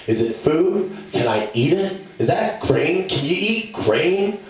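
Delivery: high, rising questions; hungry kid pestering for food; eager piggy kid. Acted.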